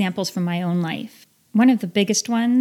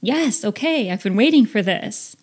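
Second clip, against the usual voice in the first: mild retold excitement; eager. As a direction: sound like you finally got the green light. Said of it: "my feeling was".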